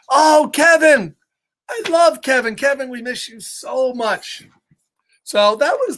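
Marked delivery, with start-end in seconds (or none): 0.1-4.5 high delighted greeting. Real, not acted. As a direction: gush over a friend you miss. Fond surprise at a friend.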